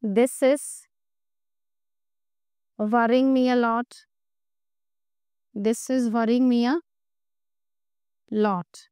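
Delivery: very slow, in separated chunks; slow dictation. Shown as a demonstration. Teacher giving students the English translation, slow dictation. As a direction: give students time to write each chunk.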